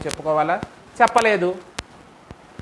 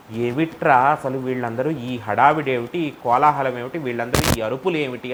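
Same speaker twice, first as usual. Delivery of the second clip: Shiva's puzzled voice; 6 semitones lower than usual. Acted. Shiva voiced asking about noise.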